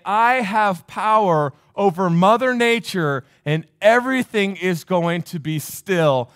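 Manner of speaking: slow, emphatic declaration of authority; slow, forceful preacher voicing Jesus; commanding Jesus. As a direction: declare it slowly, like quelling a storm. Jesus commanding the storm, retold.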